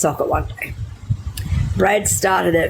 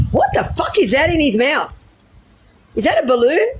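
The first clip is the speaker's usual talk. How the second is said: startled exclamation; 8 semitones higher than usual. Retold or imitated. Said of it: "I said".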